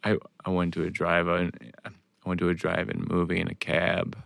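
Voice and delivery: low, soft deadpan Boston delivery; Stephen Wright deadpan. Retold or imitated. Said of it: "you gotta do Boston accent with it".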